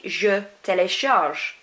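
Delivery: slowly, no vowel after the G in "télécharge"; "télécharge" with the last E unpronounced; silent final E. Shown as a demonstration. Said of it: "not pronouncing that E at the end".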